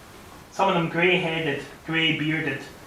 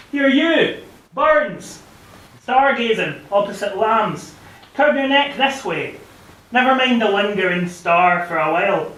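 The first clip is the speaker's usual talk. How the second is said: calling out loud; 3 semitones higher, 3 dB louder than usual. Acted. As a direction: call across the square to catch his eye. Calling out to Burns statue.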